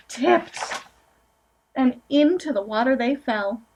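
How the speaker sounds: gentle storybook reading aloud; picture-book narration, lightly sing-song; reading to children. Acted. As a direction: read it to a room of small kids.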